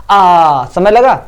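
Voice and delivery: आ drawn out slowly to show its length; stretched aa. Shown as a demonstration. Teacher demonstrating vowel length to students, stretched vowel. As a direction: hold the vowel आ long. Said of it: "जैसे कि मैंने कहा आ समय लगा".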